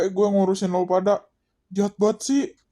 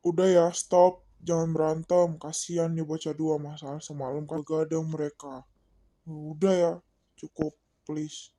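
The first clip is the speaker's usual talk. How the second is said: soft, low, tired-out appeal to stop; quiet plea; 3 semitones lower, 8 dB quieter than usual. Acted. Boy asks friends to stop fighting, quiet plea. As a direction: plead softly, trailing lower.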